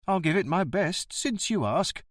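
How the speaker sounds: surly bus driver. Acted. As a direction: play the grumbling ticket man.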